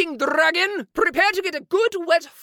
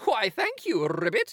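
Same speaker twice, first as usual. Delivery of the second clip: deep froggy voice; 9 semitones lower, 5 dB quieter than usual. Acted. Knight thanks with a croak.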